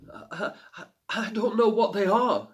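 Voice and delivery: put-on timid girl. A narrator's reading. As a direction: stammer it out. Frightened girl answers.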